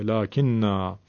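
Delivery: لکن repeated slowly with a long final a. Shown as a demonstration. The teacher repeats after the reciter. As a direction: echo لکن slowly as lakinā.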